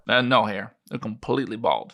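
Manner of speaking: put-on a light New Mexico ranch-country accent; Roswellian accent. Witness describing the crash site to his interviewer, lightly Roswellian accent. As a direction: tell it like a Roswell local witness. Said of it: "my best attempt at a Roswellian accent".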